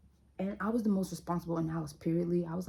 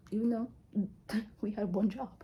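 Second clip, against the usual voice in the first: breathy whispered confession; 4 semitones higher than usual. Real, not acted. Admitting to viewers she failed at babysitting, whispered. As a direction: whisper it like a guilty secret.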